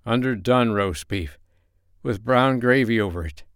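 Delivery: understated drowsy sleep-talking; sleep-talk mumble. Acted. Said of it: "he mumbled".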